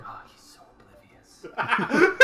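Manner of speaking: high, slow, laughing put-on voice; high slow mock voice. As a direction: coo it in a silly high voice. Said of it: "on his couch like".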